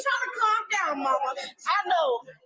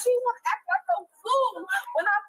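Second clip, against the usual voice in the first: upset, crying complaint; real weepy exasperation; tearful frustration. Real, not acted. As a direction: vent through tears about someone. Crying over sister's behaviour.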